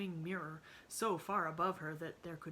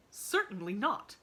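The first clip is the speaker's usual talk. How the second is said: loud, higher flat no; firm refusal; 4 semitones higher, 7 dB louder than usual. A narrator's reading. Aunt Elizabeth flatly refuses Emily, loud. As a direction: shut it down hard. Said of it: "she exclaimed".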